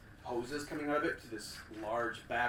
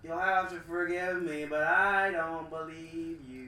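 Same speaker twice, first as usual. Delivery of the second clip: booming villain woman; 7 semitones higher, 7 dB louder than usual. Acted. Villain calling back.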